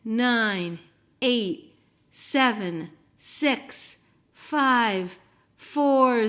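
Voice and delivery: put-on counting down out loud for the kids to join; loud rocket launch countdown, number by number. Shown as a demonstration. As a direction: call out the countdown so children count along. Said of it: "Help me again".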